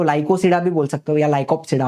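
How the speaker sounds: लाइकोसिडा with silent P, then लाइकोप्सिडा with the P; p optional. Shown as a demonstration. Teacher showing the optional P in Lycopsida. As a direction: say it both ways, P dropped then P sounded. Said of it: "वो पी भी silent आप कर सकते हो".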